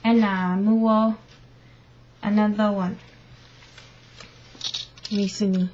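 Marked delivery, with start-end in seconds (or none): none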